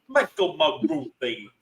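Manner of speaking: slow, drawn-out Essex take on the name; Essex accent. Shown as a demonstration. Co-host playing with a contestant's name, Essex accent. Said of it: "I was doing an Essex accent".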